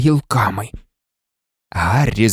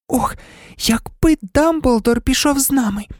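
Герміона; 11 semitones higher than usual. A narrator's reading. Hermione wishing aloud, high voice.

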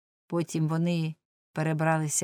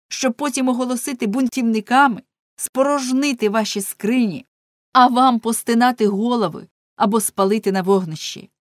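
louder, urgent preacher's warning to a crowd; impassioned harangue; 3 semitones higher, 5 dB louder than usual. Acted. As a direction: rouse the people from the pulpit, pressing hard. Ulenspiegel harangues crowd from pulpit. (Уленшпігель гучно застерігає натовп з амвона)

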